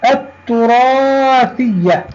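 التراثية drawn out with doubled t; silent lam. Shown as a demonstration. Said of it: "تكتب ولا تنطق". (نطق «التراثية» ببطء بلام صامتة وتاء مشددة)

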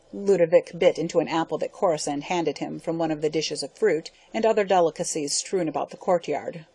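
ordinary delivery, nothing marked

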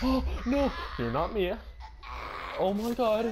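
loud, high scream of horror; loud, high panicked screaming; terrified shriek. Real, not acted. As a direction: shriek as the friend turns. Mia turned monster.

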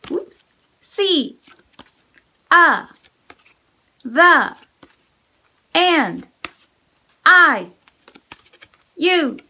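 loud flashcard voice, one word at a time; big voice. Shown as a demonstration. Teacher calling out sight words loud. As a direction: call out each word loud. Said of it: "say it. Big voice".

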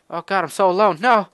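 mock despair. Dramatic reading of game text.

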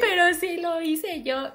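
put-on high, slow, a touch teary kid; mock child whine. Little girl about to cry because nobody believes her, mock whine. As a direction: whimper it like a hurt little girl. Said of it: "me puse a chillar".

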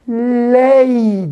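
"ley" drawn out as one syllable; syllable read-out. Shown as a demonstration. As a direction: sound out "ley", holding it long. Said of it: "diye okunur değil mi". ("ley" hecesini uzatarak okuma)

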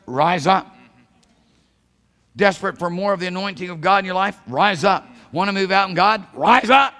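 rallying cry from the pulpit; rousing preacher's command. Real, not acted. Preacher's commands building to a climax.

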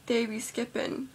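slow, drawn-out slang with a rising end; casual mock street talk, slowed down; ghetto slang. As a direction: lightly mimic street slang, dragging it out. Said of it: "talk like I'm ghetto".

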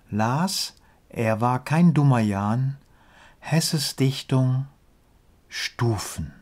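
measured verse reading with pauses at line ends; deliberate, lilting rhymed delivery; poem recitation. Acted. Recites own comic poem.

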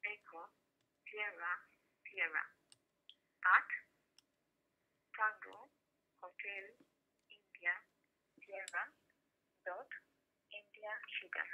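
cell phone line breaking up; tinny phone call audio; over the phone. Real, not acted. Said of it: "You're on a cell phone, it's just breaking up".

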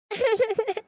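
choked sob. Acted. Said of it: "அழாதீங்க அண்ணி".

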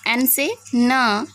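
एन से "न" बोलें; "न" की आवाज़ साफ़ अलग निकालें; sounding out N. Shown as a demonstration. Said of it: "न की साउंड निकलती है". (अक्षर की ध्वनि स्पष्ट बोलें)

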